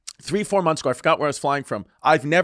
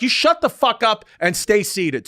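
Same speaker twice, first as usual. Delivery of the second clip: mock stern order; 5 semitones higher, slower than usual. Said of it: "she was like".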